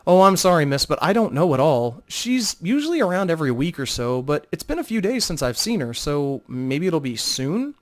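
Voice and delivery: a nervous hostess fumbling for the answer; flustered innkeeper Telith. Acted. Telith continues.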